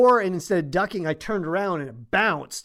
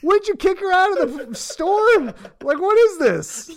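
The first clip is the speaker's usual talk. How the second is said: retold outrage; 13 semitones higher, 4 dB louder than usual. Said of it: "I'm like".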